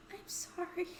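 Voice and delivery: soft breathy whisper. Acted. Misha crying into friend's shoulder, whispered apology. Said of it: "She's whispering something".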